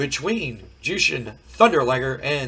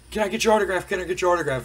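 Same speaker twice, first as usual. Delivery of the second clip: eager fans; 5 semitones higher, much faster than usual. Retold or imitated. Fans begging Marc Mero.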